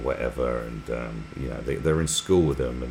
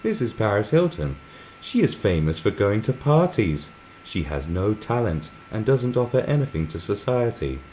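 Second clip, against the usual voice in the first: higher-pitched mock propaganda voice-over; matter-of-fact narration; 6 semitones higher than usual. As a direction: imitate a narrator stating damning facts. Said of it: "saying it real matter of fact".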